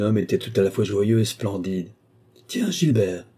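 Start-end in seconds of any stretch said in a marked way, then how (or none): 2.5-3.3 higher, pleasantly surprised greeting; friendly note of recognition; good-natured. A narrator's reading. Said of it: "dit-il avec bonhomie".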